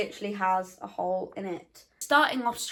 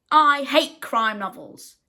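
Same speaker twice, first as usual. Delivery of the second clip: mock reviewer complaint; 6 dB louder, slower than usual. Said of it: "unsatisfied martyr".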